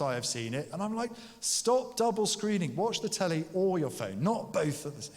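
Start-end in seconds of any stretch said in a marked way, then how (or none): 1.4-5.1 exasperated telling-off. Retold or imitated. Telling family off about screens.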